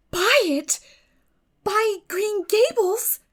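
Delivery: stunned, as if mishearing; disbelief. A narrator's reading. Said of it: "Anne wondered if she had heard aright".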